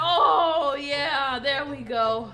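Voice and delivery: low, slow sigh of relief. Acted. Cooled down in the toilet, relieved and slow. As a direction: sink into the cool water.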